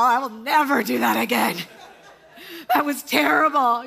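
a mock-tearful voice; mild imitated sob over the lost pet. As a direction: retell it half-crying, half-laughing. Husband retells putting down pet.

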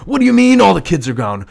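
high, loud incredulous shout; shocked disbelief. Acted. Partner yelling back at the news, stunned shout. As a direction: shout it back, unable to believe it.

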